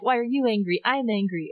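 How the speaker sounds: mildly heated imitation of a quarrel; mock angry retort. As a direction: throw the anger back, lightly acted. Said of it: "and kind of angry".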